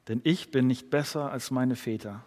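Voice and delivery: hushed, reflective repeat of "nicht besser als meine Väter". Shown as a demonstration. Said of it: "repeated quote, quieter".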